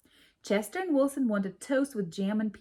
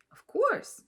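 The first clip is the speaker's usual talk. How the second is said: much higher, louder squeak; proud little mouse answering; Chester's reply; 5 dB louder than usual. A narrator's reading. Chester answers Lily in a high proud squeak. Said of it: "said Chester".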